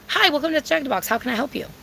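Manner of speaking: quick, friendly drive-thru opener; cute, practiced order-taker patter; friendly greeting. Acted. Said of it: "'cause it's friendly".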